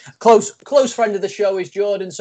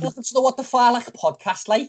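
higher-pitched attempted Scouse; Scouse accent; 6 semitones higher than usual. Shown as a demonstration. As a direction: have a rough go at Scouse.

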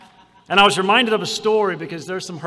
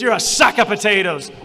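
retold blunt put-down; 4 semitones higher, 9 dB louder than usual. Speaker cuts off her story.

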